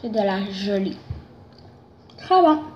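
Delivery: eating gummy candy; talking while chewing. Real, not acted. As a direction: mouth partly full of candy. Seen 3: Bites the candy earlier, hand to mouth, then talks while chewing.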